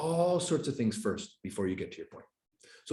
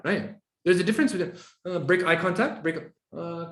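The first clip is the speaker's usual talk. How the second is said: ordinary delivery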